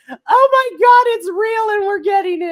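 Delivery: very high, loud shriek of joy; overjoyed, over-the-top shouting; ecstatic fan scream. Retold or imitated. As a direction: scream it high, losing your mind with excitement. Retold losing her mind.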